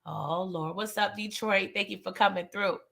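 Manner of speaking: sinking feeling, uh-oh; hushed, deep foreboding; low dread. Retold or imitated. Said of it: "I said".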